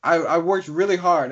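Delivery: a hint of proud game character; lightly voiced boastful squirrel. Jock squirrel boasts of his house.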